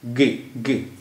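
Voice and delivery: गे, गे as two separate, firmly placed syllables; stressed syllable isolated. Shown as a demonstration. Teacher isolating the stressed second syllable, गे said separately and firmly. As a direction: repeat गे alone, each one distinct. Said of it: "दूसरे syllable पर stress".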